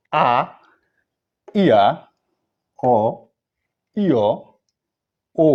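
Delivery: each vowel from আ to ই loud and separate, long pauses between; emphatic vowel-by-vowel recital ending on a clear ই; pronunciation drill. Shown as a demonstration. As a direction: model the vowels for learners to repeat, ইয়া gliding from "i" to "a". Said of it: "আমার সঙ্গে উচ্চারণ করেন".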